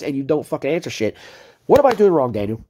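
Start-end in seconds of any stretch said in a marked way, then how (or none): 1.7-2.6 angry demand. Real, not acted. Streamer demanding answers from rival Daniel, angry and loud. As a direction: hammer the question at him. Confronting rival in heated rant.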